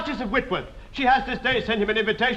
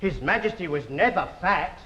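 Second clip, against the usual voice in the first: lower, simpering courtly flattery; fussy tailor; 5 semitones lower than usual. Acted. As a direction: fawn over his majesty's figure.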